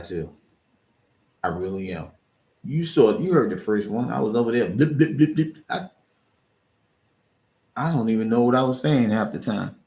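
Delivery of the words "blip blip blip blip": imitating blips. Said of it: "I'm stuttering and things like that".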